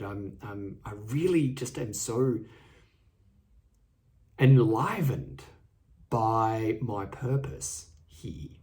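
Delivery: slow, broad Australian vowels on purpose here; light Australian accent, drawn out. Real, not acted. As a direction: lean into an unplanned Australian accent. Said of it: "said in a real Australian accent".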